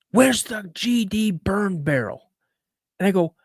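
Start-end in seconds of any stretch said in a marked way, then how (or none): 0.1-2.3 high, slow, mock-angry demand; retold pissed-off dad. Dad confronting his son over the burn barrel, mock-angry. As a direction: imitate a fed-up father demanding an answer. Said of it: "he was just pissed".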